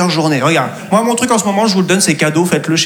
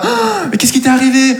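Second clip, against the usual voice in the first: surprised colleague; 5 semitones higher than usual. Pretend. Colleagues voiced.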